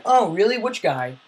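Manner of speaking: mock surprise. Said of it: "They'll be like".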